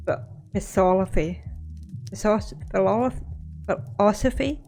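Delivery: "philosophy" stumbled on, repeated fast, then rising; "Philosoph-" restarted quickly until "philosophy?" lands; stumbling over a word. Real, not acted. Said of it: "it's my lisp".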